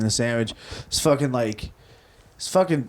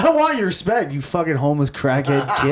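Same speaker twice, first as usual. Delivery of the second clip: mock snapping back. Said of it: "And I was like".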